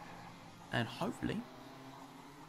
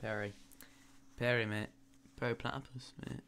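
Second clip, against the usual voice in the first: northern English accent on "Perry"; 5 dB quieter than usual. Shown as a demonstration. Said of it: "Oh, why not?".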